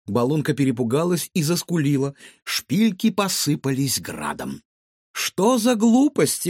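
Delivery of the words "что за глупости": высоко и медленно, с возмущением; гадалка возмущённо отмахивается от выдумки; восклицание. A narrator's reading. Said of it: "воскликнула гадалка". (громкое возмущённое восклицание гадалки)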